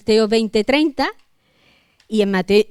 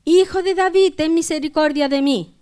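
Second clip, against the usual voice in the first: much higher, raised plea for mercy; crying out harder; 5 semitones higher than usual. A narrator's reading. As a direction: call out insistently, pitched right up. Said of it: "él clamaba mucho más". (clamor más insistente, con voz aguda)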